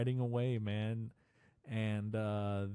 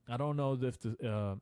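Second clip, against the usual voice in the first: stuttering. Real, not acted. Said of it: "I keep, like, stuttering and lisping".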